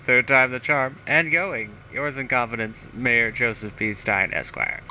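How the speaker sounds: lightly voiced pompous politician; a touch of hammed-up self-importance; self-satisfied mayor. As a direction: read it out as a boastful small-town mayor. Reads mayor's journal in character.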